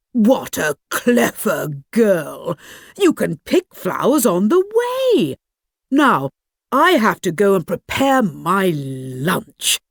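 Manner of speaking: lightly voiced wolf, mock praise; butter her up, then say goodbye; flattering wolf.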